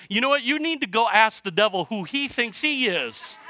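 high, animated urging; God prompting Nathan. Acted. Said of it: "God reminded Nathan".

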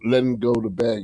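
slightly husky, catching throat; speaking through a throat tickle; frog in throat. Real, not acted. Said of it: "we got a little frog in my throat here".

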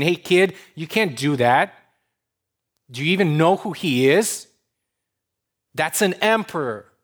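mock scolding, pitched a little up; a hint of a stern guard's telling-off; lightly voiced scolding bodyguard. Bodyguard to a boy nearing the emperor, mildly acted scolding. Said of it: "starts to scold him".

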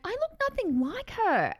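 high, exasperated wail. Retold or imitated. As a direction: wail it in disbelief. Upset at dad's mistake.

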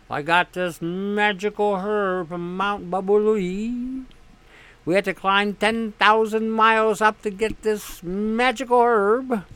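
hammed-up snake-oil pitch for a magic herb; a phony healer hawking his herb to a desperate patient; mock quack salesman. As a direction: sell the miracle cure like a con man. Mocking quack doctors' sales pitch.

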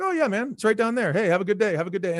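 high start, friendly send-off; retold cordiality. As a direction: act out the guy turned obliging. Same guy now cordial.

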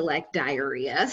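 laughing while saying it. Real, not acted. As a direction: giggle the word out slowly. Laughing at own emoji.

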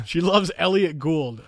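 put-on slow New York Jewish accent. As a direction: lean into a Jewish New Yorker voice. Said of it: "it's a Jewish accent".

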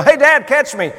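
son's high, loud call from the cliff; child yelling. Retold or imitated. Son calls down to dad from cliffs, yelling. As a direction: shout up to dad to catch you. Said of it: "I heard a voice above me yell".

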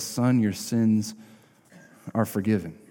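gently, like to a hurting son; tender. Acted. He looks at the man.

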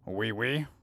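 mock French. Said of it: "that's Frenchy".

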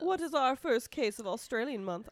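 playful put-on British accent. Co-host introducing the first case, put-on British accent. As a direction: slip into a British accent for the question. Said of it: "started talking with a British accent".

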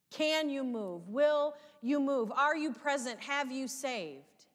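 a believer's desperate questions in prayer; pleading prayer. Retold or imitated. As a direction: press God with each question. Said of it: "All of these questions, prayed".

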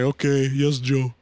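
a hammed-up German accent, agreeing; bad mock German accent saying okay. A GM answering his player in mock German accent. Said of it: "That was my German accent".

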